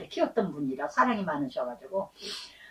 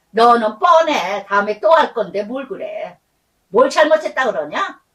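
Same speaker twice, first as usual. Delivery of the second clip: nagging parent; 4 dB louder than usual. Retold or imitated. Parent scornfully rejecting child's apology, loud nagging.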